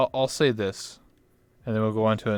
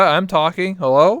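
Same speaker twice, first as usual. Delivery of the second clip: calling out; 7 semitones higher, 6 dB louder than usual. Real, not acted. Friend can't hear him.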